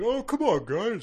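high mock-pleading whine; playful put-upon objection; whiny protest. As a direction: plead with your mates, hammed up. Acts out Shalazar protesting.

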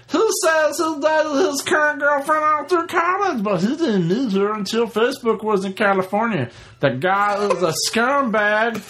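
high, declaiming email reading; exaggerated email read-out. Reading listener email aloud, mocked after.

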